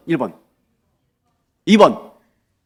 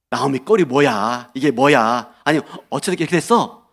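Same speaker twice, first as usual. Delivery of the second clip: mildly dismayed, reproachful lament; 3 semitones lower than usual. Shown as a demonstration. Women of Bethlehem reacting to Naomi's sorry state, lamenting. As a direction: lament it with a critical sigh in the words. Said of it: "예, 탄식하는 의미이다".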